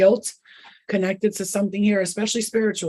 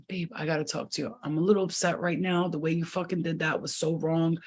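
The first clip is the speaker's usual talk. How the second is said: calm talk; 2 semitones lower, 4 dB quieter than usual. Shown as a demonstration. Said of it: "That's how you talk to me".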